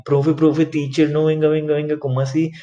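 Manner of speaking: high-pitched puzzled student calling to the teacher; protesting student. Acted. Student questioning teacher about the missing R, high-pitched protest. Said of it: "estén viendo el video y digan".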